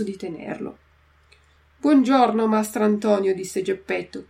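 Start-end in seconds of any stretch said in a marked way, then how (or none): 1.8-3.3 hearty greeting. Acted. Geppetto greets the carpenter.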